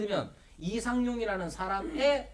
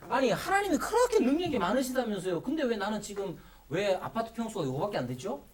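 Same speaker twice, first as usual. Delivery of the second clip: acted protest to God, argumentative; mock grumbling challenge; challenging complaint. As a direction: take issue like an aggrieved believer. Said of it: "그렇게 따지고 싶은".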